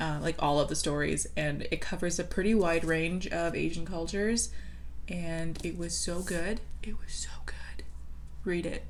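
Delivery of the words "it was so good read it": soft, hushed, breathy whisper. Urging listeners to read a book, the speaker whispers.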